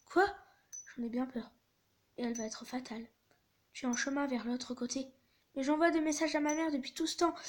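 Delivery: measured narration with lightly acted dialogue; story read-aloud. A narrator's reading. Conductor breaking fatal news to Thomas, acted story reading. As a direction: tell the tale, lightly voicing each speaker.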